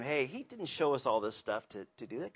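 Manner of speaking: soft, understated reassurance; calm reminder. Acted. Calm wife reminding her panicked husband, soft reassurance. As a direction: gently talk someone down from panic. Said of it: "She's the calm one".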